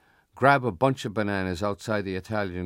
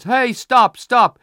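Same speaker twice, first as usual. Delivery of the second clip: loud, high-pitched yell; high boyish shouts under attack; 14 semitones higher, 12 dB louder, much slower than usual. Acted. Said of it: "till he yells".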